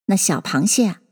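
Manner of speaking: plain reading voice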